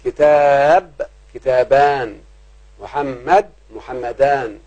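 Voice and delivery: كتاب stretched slowly; drawn-out example word. Shown as a demonstration. Teacher giving a grammar example, drawn-out word. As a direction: hold the long vowel in كتاب. Demonstrating singular before dual.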